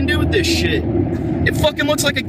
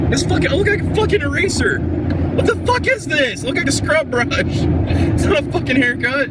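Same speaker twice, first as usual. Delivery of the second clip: angry rant; 3 semitones higher than usual. Real, not acted. Ranting about ruined haircut.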